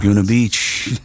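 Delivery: slow radio host read breaking into a laugh; smooth station ID, cracking up. Shown as a demonstration. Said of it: "let me get back in my D J voice".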